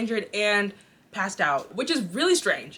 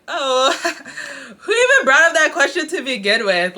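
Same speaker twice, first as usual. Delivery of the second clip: laughing; 5 semitones higher, 7 dB louder than usual. Retold or imitated. Coworkers react awkwardly, laughing.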